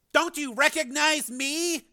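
high, slow urgent cry; pleading shout. A narrator's reading. Brother trying to get through, pleading shout. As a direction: call out to get through to him. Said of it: "It took a few shouts".

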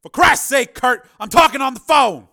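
loud, exasperated protest; irritated outburst. A narrator's reading. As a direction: snap back to cover guilt. Caught out, snapping back.

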